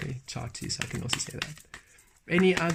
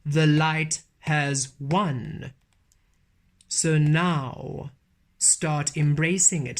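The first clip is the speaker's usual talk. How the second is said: channelled message. Acted. Channelling a message that the light has won, emphatic and declaimed.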